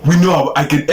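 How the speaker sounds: attempted Nigerian accent. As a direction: have a go at Nigerian English. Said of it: "do it in the Nigerian accent".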